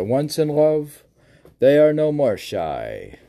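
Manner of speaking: spoken verse recitation. Acted. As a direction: read the verse out loud and clear. Reads out verse line.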